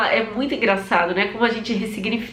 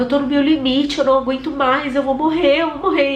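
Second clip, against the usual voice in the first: panicked cry; 5 semitones higher than usual. Retold or imitated. Labor pain, panicking to doula.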